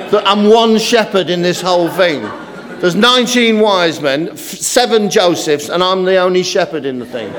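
lightly voiced overburdened little shepherd; put-out nativity kid. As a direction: complain like a child left with all the work. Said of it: "you got the one kid".

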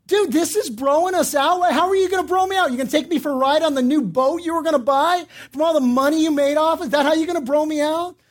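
retold incredulous complaint; indignant confrontation. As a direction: challenge him with sarcastic questions. Confronts contractor over the high bid.

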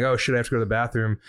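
fast, urgent blurt; rushed panic. Retold or imitated. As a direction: rattle it off in a hurry. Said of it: "I'm like".

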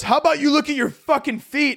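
high, snide retort; mock him about his shoes; guard scolding a forgetful traveler; sarcastic guard.

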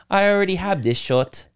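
put-on baby voice. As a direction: lightly mimic a three-year-old's baby way. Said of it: "He says in his little baby way".

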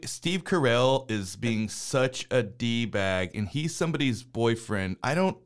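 mocking impersonation of a rambling plot summary; Solomon. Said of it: "like a perfect Solomon impersonation".

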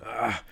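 imitated coach's "ah"; coach's groan. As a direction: mimic a coach's exasperated cry from the corner. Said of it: "hear my coach in the video going".

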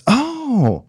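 a hammed-up corporate pushover; mock corporate yes-man. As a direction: cave in brightly to the boss. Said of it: "what I heard myself say".

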